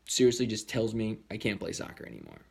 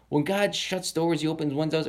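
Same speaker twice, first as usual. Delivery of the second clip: raised, louder consoling quote; mock comforting proverb, pitched up; retold sympathy; 6 semitones higher, 3 dB louder than usual. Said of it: "she felt so bad for me".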